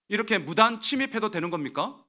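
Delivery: retold angry phone complaint; angry landlord. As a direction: imitate an irate caller scolding. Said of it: "화를 내면서 전화가 왔어요".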